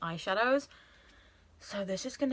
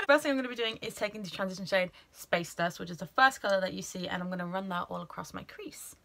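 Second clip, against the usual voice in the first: makeup tutorial. Pretend. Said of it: "trying to sound all professional".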